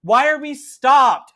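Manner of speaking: high, loud, rushed complaint; frantic student. Acted. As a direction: burst in demanding why we stopped. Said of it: "she's like".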